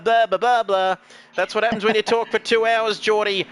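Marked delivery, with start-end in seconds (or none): 0.3-1.0 lips flubbing on loose nonsense syllables; tongue-tied babble. Real, not acted. Commentator after two hours of talking, tongue-tied babble. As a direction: babble as if the words won't come out. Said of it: "The words don't come out how they should".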